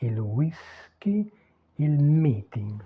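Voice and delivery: "whisky" and "meeting" slowly, Italian style; slow teacher's demo of "whisky" as gwee-SKEE; Italian pronunciation. Shown as a demonstration. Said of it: "La prononciation des mots anglais est différente en italien".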